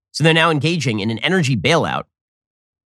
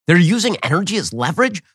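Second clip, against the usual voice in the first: mock incredulity; 4 semitones higher than usual. Real, not acted. Echoing the clip mockingly.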